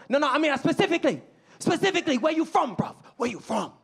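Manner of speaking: put-on high, insistent British accent; excited British local. London local pressing the American for his hometown, excited British accent. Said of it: "They were very excited by my accent".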